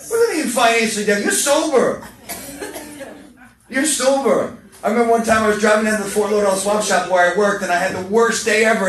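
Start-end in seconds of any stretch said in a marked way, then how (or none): 0.1-4.6 high, fast laughing scolding; mock-scold the self-pity; laughing disbelief, pitched up; incredulous. Exasperated rebuke of himself.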